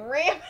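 RAMEN as a loud, high "RAM-en"; short "a" as in ram on ramen; whitest-person mispronunciation. Retold or imitated. Mocking own slip to friend, whitest-person ramen. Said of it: "the whitest person".

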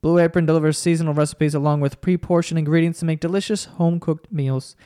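slow, deliberate sponsor read. Acted. Host reading the sponsor spot to listeners, ad voice. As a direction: read the ad copy like an announcer. Podcast host reads Blue Apron ad.

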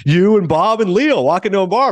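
high, slow, amateur interviewer impression; Gayle King. Interviewer teasing the director about his pals, mock high voice. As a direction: badly imitate a TV host, high and drawn out. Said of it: "I can't do a Gayle King impression".

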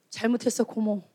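low, soft little apology; meek apology. Acted. Child apologizing to aunt at one look, meek apology. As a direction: give in softly, pitch dropped.

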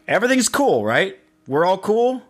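high nervous asking; high anxious check-in. Retold or imitated.

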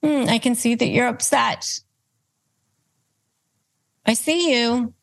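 put-on gently calming a tantruming toddler; soothing to a toddler. Shown as a demonstration. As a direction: soothe them like a small child in a tantrum. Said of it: "How would you look at a toddler".

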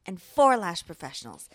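broadcast intro. Acted. Cohost opens the broadcast for lash professionals, soft polished intro read. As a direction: welcome listeners like a broadcast host.

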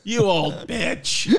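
very slow, drawn-out mock insult; disrespectful Bill Maher. Imitating Maher insulting the Queen, disrespectful. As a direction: stretch the insult out contemptuously. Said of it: "he's just so disrespectful".

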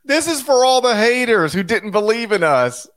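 mock a smug winner addressing haters; mock speech. Parodying a coach mocking the doubters. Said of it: "And I'm paraphrasing here".

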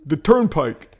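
faint mock Jersey accent; lightly cheering Jersey accent. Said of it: "Jersey accent".

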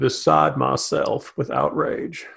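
slow, flat, lips barely moving; performing the McConnell voice on request, slow and toneless; deadpan McConnell voice. Shown as a demonstration. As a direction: say outrage with no inflection at all, like a ventriloquist. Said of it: "and go as deep as possible".

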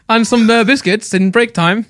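lightly voiced posh kid; a hint of a snooty schoolboy. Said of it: "That's my posh voice".

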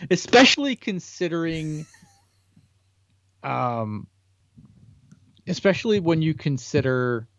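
losing the thread mid-sentence; repeating, then drifting off; trailing off. Real, not acted. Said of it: "what was I saying?".

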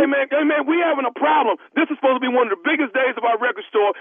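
prank caller as store clerk. Pretend. Prank caller as store clerk pressing the star to come sign, lightly voiced clerk. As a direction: play a pushy store clerk on a prank call. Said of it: "Nephew Tommy".

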